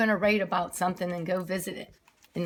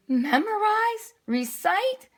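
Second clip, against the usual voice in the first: dismayed; 12 semitones higher, slower than usual. Acted. Arthur shocked by assignment.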